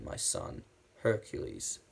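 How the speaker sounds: hushed, secretive reveal; dramatic whisper. Retold or imitated. Reviewer acting Zeus's post-credit reveal in a whisper. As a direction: breathe the name like a secret. Quoting Zeus revealing Hercules.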